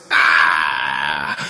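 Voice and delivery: long, loud agonized groan; cry of pain. Acted. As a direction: cry out mid-speech in pain. Wounded man in pain.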